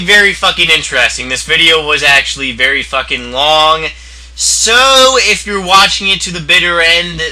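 loud hyped outro; loud vlog outro. Acted. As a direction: shout the outro to viewers. Outro to viewers.

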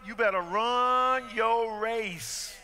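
slow, drawn-out then shouted; preaching refrain. Acted. Pastor drives home the refrain to the church, slow then shouted. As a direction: hammer the refrain home slowly.

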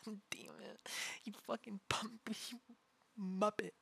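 breathless whispered swearing; whispered curse. Real, not acted. Whispered curse after tickling.

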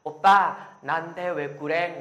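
loud drawn-out "Oppa", then a slow plea; a K-drama girl pleading with her oppa; pleading Korean girlfriend. Retold or imitated. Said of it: "Các bạn hay gọi là".

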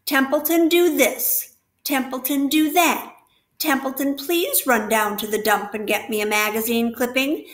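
the rat mocks every request made of him; disgust. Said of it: "he said in disgust".

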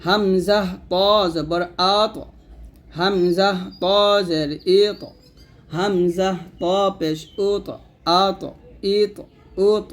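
thick, full ত with a rebound in আত, ইত, উত; heavy qalqalah. Shown as a demonstration. Teacher showing learners heavy letters, thick echoing ত in আত, ইত, উত. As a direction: make the ত in আত, ইত, উত heavy, then bounce it. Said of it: "কটা মোটা হবে".

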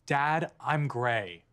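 "gray" said slowly, long vowel; slow clear "gray". Retold or imitated. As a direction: spell out "gray" slowly, each sound clear. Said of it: "hoping he heard it wrong".

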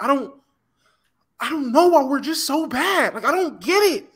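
mild mock-whiny kid; lightly voiced tearful-kid complaint; crying kid. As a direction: imitate an upset child, drawn out. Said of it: "I was a kid and I cried".

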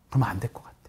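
hushed confession; whispering a private conviction. Real, not acted. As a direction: whisper it under your breath. Whispered aside.

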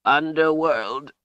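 high, slow strained gasp. A narrator's reading. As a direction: force it out like a gasp, high and drawn out. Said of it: "Zed gasped".

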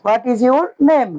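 each word stretched slowly; very slow model. Shown as a demonstration. Teacher slowly repeats the English question for the class. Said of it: "তোমার নাম কি ইংরেজি?".

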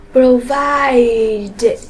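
"Provided" with a long middle vowel, then "it"; -ed read as "it". Shown as a demonstration. Teacher answers the exercise, "Provided" ending in "it". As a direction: sound out "Provided" ending in an "it" syllable. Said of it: "chúng ta đọc là it".

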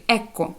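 «екко» with a long hard k; «екко», a teacher's model of double k; doubled k. Shown as a demonstration. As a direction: say «екко» holding the k briefly. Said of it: "подвоєння букви".

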